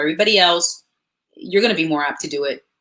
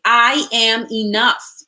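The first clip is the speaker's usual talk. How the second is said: slow, deliberate affirmation; 3 semitones higher, much slower than usual. Shown as a demonstration. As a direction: say each word slowly with conviction. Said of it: "Say it with me".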